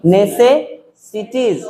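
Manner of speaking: नेसेसिटीज stretched very slowly with the ss pressed hard; stressed slow pronunciation. Shown as a demonstration. Teacher stressing the double s for students, slow and heavy. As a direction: press each s in नेसेसिटीज, draw it out. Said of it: "जोर दे के बोल रहे हैं इसमें".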